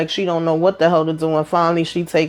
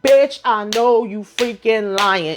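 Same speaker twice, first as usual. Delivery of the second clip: disbelieving call-out; 4 semitones higher, slower than usual. Real, not acted. Recapper yelling at the screen.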